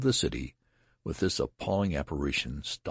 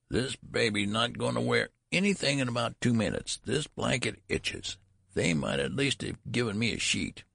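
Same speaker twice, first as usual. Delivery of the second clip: put-on high, querulous old-man voice; peevish high-pitched complaint; complaining old man; 8 semitones higher than usual. A narrator's reading. Old man grumbles about the blanket.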